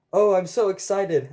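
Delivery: high, loud, giddy squeal of delight; gushing excitement. A narrator's reading. Andrew Mitchell climbs into time machine, giddily excited. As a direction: gush it eagerly.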